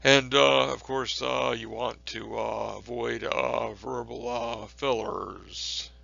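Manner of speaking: halting, stuffed with uh between words, very slow at the end; filler-word demo. Shown as a demonstration. Lecturer mocking verbal fillers for students, halting. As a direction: deliberately stumble over uhs. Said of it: "Any type of repetition like that".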